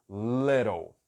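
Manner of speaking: American "little" with the T flapped to R, "lirow"; American accent. Shown as a demonstration. Teacher contrasting American "little" with the British one. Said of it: "como é o inglês americano".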